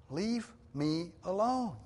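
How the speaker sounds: slow, high-pitched exasperated protest; worn-out demand, word by word; exasperated plea. Acted. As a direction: draw out each word, pleading to be let be. Paraphrases Job's protest to God.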